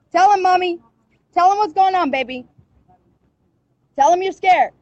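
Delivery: loud, high pleading to her daughter; urgent urging. Real, not acted. Mother urging her daughter in the car to tell police, loud and high. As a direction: egg her on, loud and desperate.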